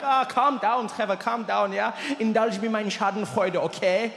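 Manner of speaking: lightly voiced German friend soothing; a hint of German, mock calming; light German accent. Friend telling him to calm down, light German accent. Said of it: "He's like".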